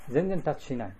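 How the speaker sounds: 全然 stressed, falling at the end. Shown as a demonstration. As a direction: lean on 全然 in 全然タッチしない. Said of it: "今ちょっと聞いてね".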